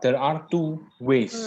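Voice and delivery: robotic glitchy connection; choppy robotic internet audio. Real, not acted. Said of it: "why your voice is like, um, robotic?".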